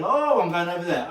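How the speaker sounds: voicing the follower's thought; a light, airy lady partner; lady partner's thought. Teacher voicing the lady partner's thought, lightly. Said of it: "understands as a lady that I'm going".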